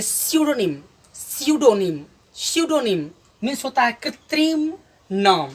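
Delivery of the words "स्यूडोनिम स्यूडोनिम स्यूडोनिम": स्यूडोनिम as "syu-do-nim", opening on s; pronunciation demo. Shown as a demonstration. Teacher showing how we will read it, pronunciation demo. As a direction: model स्यूडोनिम clearly, no p sound at the start. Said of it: "इसे पढ़ेंगे".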